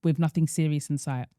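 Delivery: measured read-out of a listener's dilemma; careful, composed reading voice; reading a letter aloud. Acted. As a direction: read the letter evenly, phrase by phrase.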